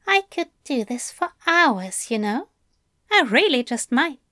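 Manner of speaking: lightly voiced, fond teaser; Aziraphale. Angel to overwhelmed Crowley, lightly teasing. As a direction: threaten it playfully, voice a little lifted.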